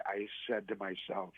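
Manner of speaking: ordinary talk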